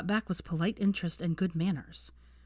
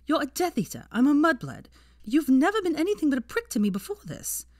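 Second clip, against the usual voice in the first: much higher, louder heated accusations; angry young woman; 7 semitones higher, 4 dB louder than usual. Acted. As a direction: hurl every insult at him. Hermione voiced, furious accusations.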